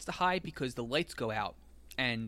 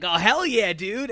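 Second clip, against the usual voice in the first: cheering; 5 semitones higher, 10 dB louder than usual. Retold or imitated. Crowd cheering at the prank reveal.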